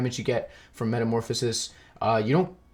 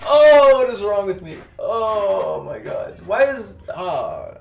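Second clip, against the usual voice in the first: laughing disbelief; 7 semitones higher, 6 dB louder, much slower than usual. Real, not acted. Laughing exasperation after mistake.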